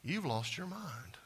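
slow, whispered disbelief; family telling Rhoda she's crazy; incredulous whisper. Retold or imitated. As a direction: hush it out slowly as if she's crazy. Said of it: "they said to you".

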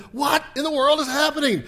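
high, loud disbelief; mock astonishment. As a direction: exclaim it in acted bewilderment. Acting the astonished reader.

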